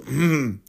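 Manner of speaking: imitated throat-clear before singing. Guide getting ready to sing for the bus, clearing his throat. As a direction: clear your throat in preparation. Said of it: "coughing and getting his throat ready".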